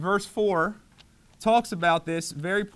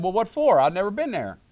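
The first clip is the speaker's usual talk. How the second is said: retold surprise; 3 semitones higher, 4 dB louder than usual. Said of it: "And I said".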